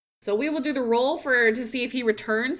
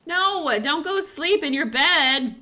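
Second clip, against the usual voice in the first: high, louder yell at the stubborn sim; mock scold, much higher and louder; shouting orders; 8 semitones higher, 6 dB louder than usual. Real, not acted. Player yelling at her son to leave the house, mock exasperated shout.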